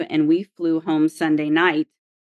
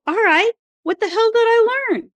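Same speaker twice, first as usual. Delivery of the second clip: much higher, fed-up outburst; exasperated. Retold or imitated. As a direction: throw the question back in frustration. Exasperated retort to psychologist.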